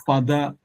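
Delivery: father with a tone on the last syllable, like "fadá"; tonalized father. Retold or imitated. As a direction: lift the end of father, with d for th. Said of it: "decided to tonalize that English word".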